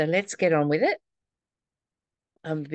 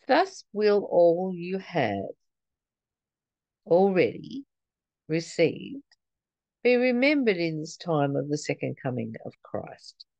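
slow careful reread. Shown as a demonstration. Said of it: "gonna read that sentence again".

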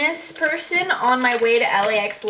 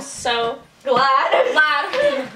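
mock smug; slower than usual. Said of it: "We're actually joking".

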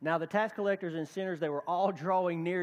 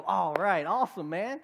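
mock cheering; 5 dB louder than usual. Friends cheering found sheep.

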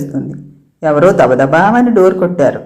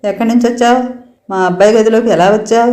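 higher, pressing interrogation; a mother grilling a stranger, insistent and raised; probing questions; 4 semitones higher than usual. Acted. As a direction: keep jabbing her with questions. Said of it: "గుచ్చి గుచ్చి అడిగింది".

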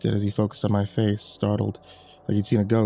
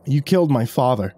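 angry; 4 semitones higher, 4 dB louder than usual. Acted. Accusing the man who killed father.

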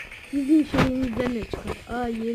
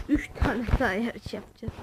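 the same words again, in a lower, softer altered voice; a light put-on voice, lower and softer; 4 semitones lower, 4 dB quieter than usual. Shown as a demonstration. Repeats the line in another voice.

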